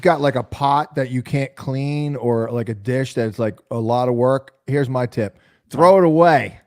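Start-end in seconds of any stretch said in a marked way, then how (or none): 5.7-6.7 high laugh breaking through. Real, not acted. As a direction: laugh out the punchline. Joking tip, laughs.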